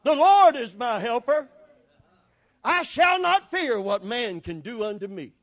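declared scripture. Shown as a demonstration. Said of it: "So say it".

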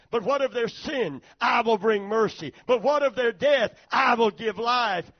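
God building in triumph to a shout; God's voice rising to a shout. Acted. God answers Satan, building.

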